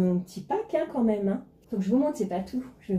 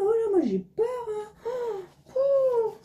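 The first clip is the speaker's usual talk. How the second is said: high, whimpering fake cry; hammed-up wail of fear, voice going high; mock fearful wail; 13 semitones higher, much slower than usual. Snobbish character pretending to panic, mock high wail.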